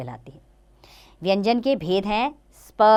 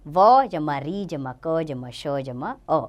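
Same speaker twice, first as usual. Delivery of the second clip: slow spelling out; 3 semitones lower, slower than usual. Shown as a demonstration. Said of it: "वृक्ष".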